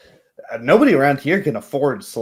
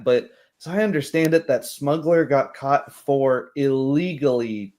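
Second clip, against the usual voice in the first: a hint of an unsure young local explaining; young commoner. Young man explains slavery law to the party, lightly voiced.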